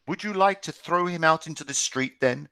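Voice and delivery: hissed. Acted. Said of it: "Friedrich hissed".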